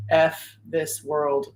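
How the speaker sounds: slow, sulky imitation of a tearful kid; daughter nearly in tears. Mom imitating her upset daughter on school day, slow and tearful. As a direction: drag it out like a miserable child. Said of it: "almost in tears".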